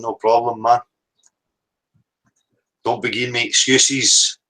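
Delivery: ordinary talk, nothing marked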